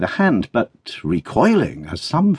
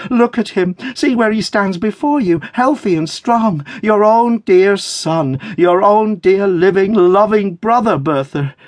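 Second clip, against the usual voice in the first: high, loud, slowing jubilation; ecstatic cry; 11 semitones higher, 4 dB louder than usual. A narrator's reading. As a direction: proclaim it high and slow, overjoyed. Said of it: "clapping them in ecstasy".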